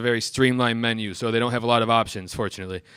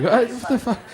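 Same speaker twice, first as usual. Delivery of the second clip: mock shriek; 11 semitones higher than usual. Exasperated reaction.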